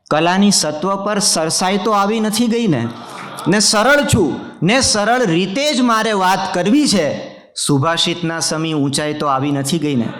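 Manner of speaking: mushaira-style couplet delivery; poetry recitation. Acted.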